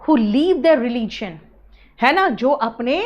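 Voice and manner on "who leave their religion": slow dictation. Shown as a demonstration. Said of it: "generally use होता है for those".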